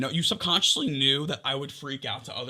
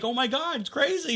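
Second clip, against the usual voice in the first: panicked texting; 9 semitones higher than usual. Retold or imitated.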